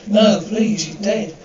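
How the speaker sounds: high, loud frightened plea; frightened cry. Acted. Woman finding the body, crying out in fear. Woman discovers dead man.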